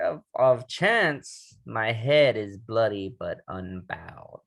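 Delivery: slow, weighty poem reading; dramatic recitation of Invictus; poem recital. Acted. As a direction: read each line like a solemn vow. Reads the poem aloud.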